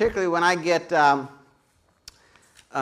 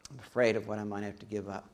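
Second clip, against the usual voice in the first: softer, lower repeat of "afraid"; quieter echo; 7 semitones lower, 9 dB quieter than usual. Shown as a demonstration. Preacher echoing the fear line, softer and lower. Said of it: "repeats the line quieter".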